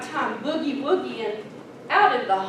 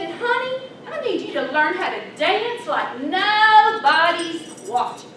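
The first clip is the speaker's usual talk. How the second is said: sweet grandma; 4 semitones higher, 4 dB louder than usual. Retold or imitated. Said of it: "she said".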